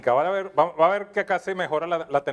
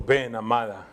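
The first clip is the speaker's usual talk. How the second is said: mock romantic; 9 semitones lower than usual. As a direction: croon it like a movie Jesus, lightly. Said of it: "se acercó románticamente y le dijo".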